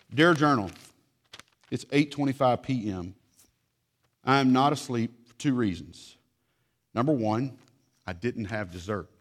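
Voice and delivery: put-on a touch of a pouty kid reading his diary; voicing a child's journal. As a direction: read it like a sulky little kid. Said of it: "Let me read you a letter".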